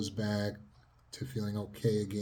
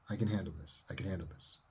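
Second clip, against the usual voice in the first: softer, murmured to yourself; quiet self-talk; 6 dB quieter, faster than usual. Shown as a demonstration. Therapist showing inner self-talk, soft and quiet. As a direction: repeat it quietly inward. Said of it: "Tell that to yourself in your self-talk".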